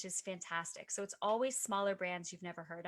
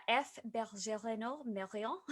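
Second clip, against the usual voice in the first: halting, slow attempt at French name; bad French accent; slower than usual. Shown as a demonstration. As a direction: stumble through the French name. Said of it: "which I say horribly".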